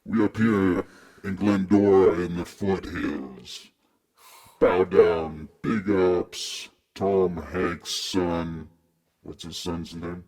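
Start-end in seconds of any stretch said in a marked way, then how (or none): 0.0-8.7 put-on Jamaican accent. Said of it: "I was doing the Jamaican accent".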